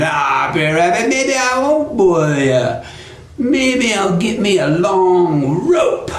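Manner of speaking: slow, stretched-out musing; scheming Brer Fox, menacing. Acted. Fox mulls another punishment, slow and gloating. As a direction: savour each new threat slowly.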